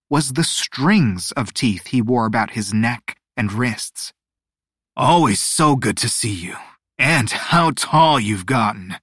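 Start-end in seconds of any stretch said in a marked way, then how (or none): 4.9-9.0 oily and over-friendly, chuckling. Acted. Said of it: "Dios Mala Suerte chuckled".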